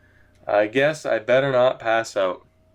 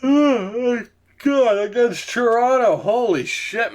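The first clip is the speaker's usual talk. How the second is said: higher, exasperated groan of disbelief; dismayed surprise; 8 semitones higher, much slower than usual. Real, not acted. Streamer groaning at a brutal matchup, dismayed surprise. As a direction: react like the schedule just slapped you. Sees tough opponent on schedule.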